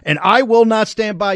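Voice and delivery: mocking a whiny, cracking official; a hammed-up imitation of a shaky speaker; mock crackling voice of Merrick Garland. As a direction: parrot his quavering line with scorn. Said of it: "the crackling voice".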